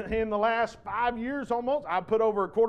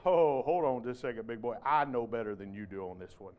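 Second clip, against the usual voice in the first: cocky Peter; 8 semitones lower than usual. Acted. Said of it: "that's exactly how I hear Peter talking to the Lord".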